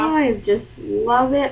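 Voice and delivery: slow, dragged-out fake love; deadpan sarcasm. Real, not acted. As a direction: say it as if you mean the opposite. Sarcasm about ironing lining.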